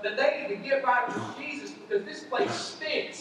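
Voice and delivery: a lightly voiced begging rich man; mild pleading rich man in Hades. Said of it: "this is the rich man".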